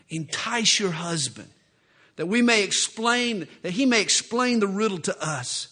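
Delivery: loud menacing threat; bully her into it; threatening Philistines. Acted. Philistines threaten Samson's wife.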